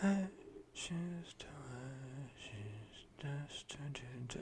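breathy whisper of the backing chorus; whispered imitation. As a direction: whisper it like the male backing vocalists. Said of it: "they're all being like".

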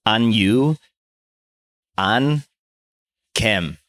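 "An you, An Kem" with flat American vowels and no tones; flat American accent. Shown as a demonstration. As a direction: read "An you, An Kem" like a clueless American tourist. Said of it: "just flat American accent".

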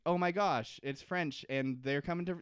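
playing castaways thrilled at rescue; mock excited castaways. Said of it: "they think".

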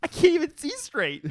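put-on high, loud drunken whine; drunk slur. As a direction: wail it like a sloppy drunk. Imitating drunk Kevin.

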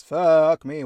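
loud, exasperated swear at herself; frustrated outburst. Real, not acted. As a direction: blurt it out, fed up with her own stumbling. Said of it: "why can't I talk today?".

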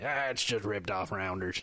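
put-on a failed British accent, dismissive; mock British scoff, badly done. Host mocking British debaters in a bad British accent. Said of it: "that was a terrible British accent".

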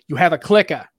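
CLICKER as "clicka", Boston style; Boston accent. Shown as a demonstration. Explaining Boston TV talk, Boston-accented "clicka". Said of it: "that's my Boston accent".

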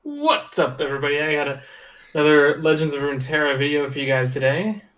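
YouTuber intro voice. Acted. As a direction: greet the viewers like a YouTuber. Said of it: "what kind of voice did you slip into".

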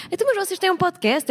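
high-pitched, sweetly interested; lightly mimicked friendly curiosity. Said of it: "ela é muito querida, assim".

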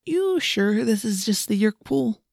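slow, nervous and shaky. Acted. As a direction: voice trembling with nerves. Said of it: "in a nervous, shaky voice".

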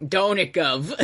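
put-on laughing comic English accent; mock English accent. Friend echoing the co-host's bit, mock English accent. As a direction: echo it in hammed-up English, half laughing. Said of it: "That's all the accents".

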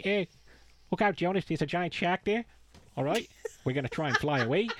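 lightly done Kiwi accent impression; a hint of a New Zealand accent, rambling; imitating Mac's New Zealand accent; mock New Zealand accent. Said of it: "where did that fucking voice come from".

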